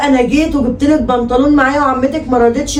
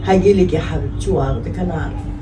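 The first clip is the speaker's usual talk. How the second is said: soft, tearful pleading to a crying daughter; a mother near tears, softer and breaking; 5 dB quieter than usual. Acted. Mother on the phone with her crying daughter, tearful and soft. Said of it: "خليتيني أعيط يا شهد".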